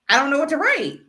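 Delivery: put-on high, loud whiny twelve-year-old; exasperated kid whining at the teacher. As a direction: pitch it up like a frustrated kid. Kid self voiced, whiny.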